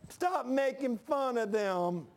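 hammed-up scold drawled very slowly; drawn-out mock scold. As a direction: drag out the telling-off like a whiny tattler. Imagined rebuke, drawn out.

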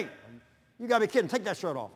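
teasing. Retold or imitated. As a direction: rib him like a rival fan. Teasing fans in rival jerseys.

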